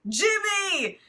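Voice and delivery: high, loud mock yell of a name; screamed. A narrator's reading. Carl screaming for Jimmy before vanishing. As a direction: cry out for Jimmy, startled. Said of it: "he screamed".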